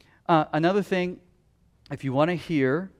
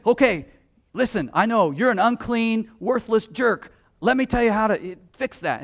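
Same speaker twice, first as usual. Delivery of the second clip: a hint of a loud, sneering know-it-all; condescending evangelist; 5 semitones higher, 3 dB louder than usual. Preacher lightly mimics a condescending evangelist. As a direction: talk down to him, mildly mocking. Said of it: "He doesn't say".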